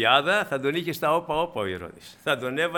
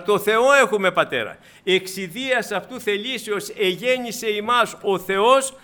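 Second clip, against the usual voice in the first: loud, raised scripture proclamation; loud pulpit declaration, pitched up; impassioned preaching; 4 semitones higher, 7 dB louder than usual. Real, not acted. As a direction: preach it out with emphatic force.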